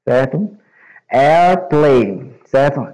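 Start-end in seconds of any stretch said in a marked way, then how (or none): 1.1-2.4 Airplane said as English \"air-plein\". Shown as a demonstration. Teacher modelling Airplane for Brazilian students, clear English pronunciation. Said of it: "eles vão chamar".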